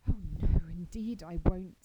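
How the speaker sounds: eagerly. Acted. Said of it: "said Anne eagerly".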